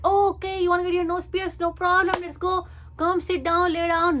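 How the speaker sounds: breezy mock piercer; light, high imitation of a casual piercer; piercer's voice.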